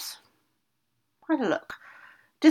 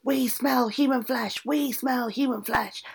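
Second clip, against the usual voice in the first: ogres bellowing; 7 semitones higher, slower than usual. A narrator's reading. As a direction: boom it out like hungry ogres with no volume control. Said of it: "came and bellowed".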